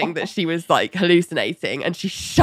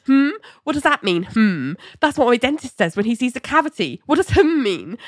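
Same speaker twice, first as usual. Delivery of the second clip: higher, mock-indignant challenge; indignant questioning; 5 semitones higher than usual. Ali challenging the therapist's hum, indignant. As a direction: throw the hum back as a question.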